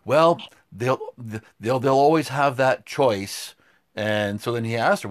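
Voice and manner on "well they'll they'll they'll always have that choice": imitating a dismissive talking-down tone; mock condescension, leaning on the words; condescending. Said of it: "the way she kinda talked down".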